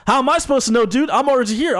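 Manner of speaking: high, indignant protest; exasperated protest. Retold or imitated. Retelling arguing with the driver, high and indignant. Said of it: "but I was like".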